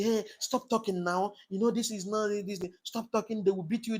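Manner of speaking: lightly acted worried warning; scared friend. Frightened friends warning him to stop speaking out, mildly scared. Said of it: "friends will come and be scared".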